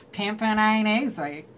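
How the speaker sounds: "Pimping ain't easy" in a relaxed, knowing, easy tone with a falling end; the right way to say it. Shown as a demonstration. Teaching viewers how to say the catchphrase, relaxed and knowing. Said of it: "you gotta say it like that".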